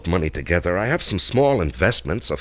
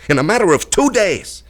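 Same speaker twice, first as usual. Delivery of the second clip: louder, higher, rushing with agitation; agitated; 5 semitones higher, 4 dB louder than usual. Acted. Man tells Allison the blackmailer squandered his cash, agitated. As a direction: build his outrage about the money.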